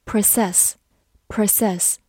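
"process" stressed at the end, pro-CESS; weak first syllable, strong second in "process". Shown as a demonstration. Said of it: "它的重音放在了后面".

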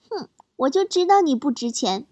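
imitated smug little brother; mock gloating with a scornful "hmph". Little brother scoring off his big sister, mock smug. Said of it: "他嘴角露出一抹得意的笑容".

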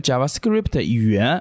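JavaScript said slowly with Japanese-style vowels; katakana-style JavaScript; Japanese accent in English. Real, not acted. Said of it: "你是很有日本那个味儿".

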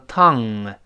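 "tongue" with a breath release at the end; released NG. Shown as a demonstration. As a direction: open the throat after the NG in "tongue". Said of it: "最后分开的时候喘一下气儿".

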